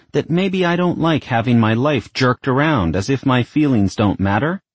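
put-on indignant young woman. Isabel confronts her mother.

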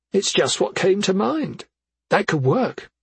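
a hint of an anxious mother; mother's voice. A narrator's reading. Effie voiced.

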